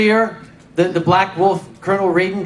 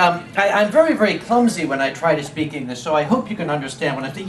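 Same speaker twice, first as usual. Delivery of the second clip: imitating Viking fan; 5 semitones lower than usual. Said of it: "will come to me and say".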